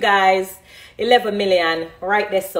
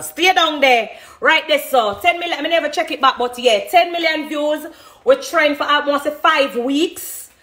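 higher, brighter joy over ten million views; excited; 6 semitones higher than usual. Real, not acted. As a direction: cheer the news of her views. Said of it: "I'm excited".

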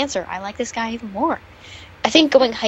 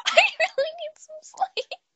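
whisper; 3 dB quieter than usual. Real, not acted. Sleepy aside.

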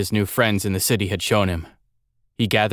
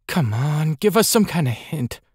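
put-on impatient boy; 7 semitones higher than usual. Andel, pleading.

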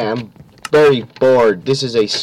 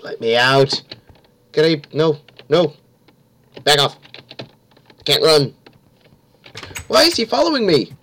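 panicking gamer; 3 semitones higher than usual. Real, not acted. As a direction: scramble in a panic. Fleeing killer, frantic.

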